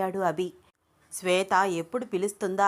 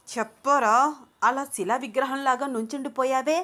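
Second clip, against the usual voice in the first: louder, each word pushed hard; pressing emphasis; 5 semitones higher, 3 dB louder than usual. A narrator's reading. Shweta pressing Ranga with pointed emphasis. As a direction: lean on the words as a hint. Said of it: "నొక్కి నొక్కి మాట్లాడుతూ".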